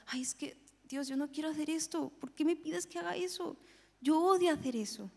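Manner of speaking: mock-reluctant objection; acted complaint. Acts out complaining to God.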